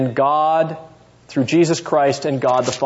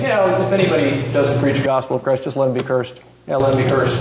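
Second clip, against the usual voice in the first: mock casual shrug; 2 semitones lower, faster than usual. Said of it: "Is he just sitting back and saying".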